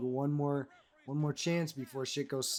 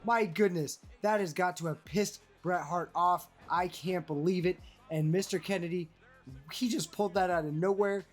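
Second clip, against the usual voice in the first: excited commentary; 5 semitones higher, 5 dB louder than usual. Real, not acted. Commentator shocked by surprise sharpshooter.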